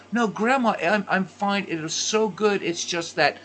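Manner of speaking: smooth it over with nonna; apologetic grandson. Retold or imitated. Grandson reassuring his grandmother the food is good, high apologetic.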